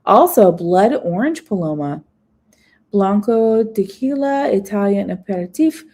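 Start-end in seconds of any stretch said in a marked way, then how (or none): 4.5-5.8 "aperitif" given a French sound; a slip into French on "aperitif". Shown as a demonstration. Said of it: "I don't know why I said it French".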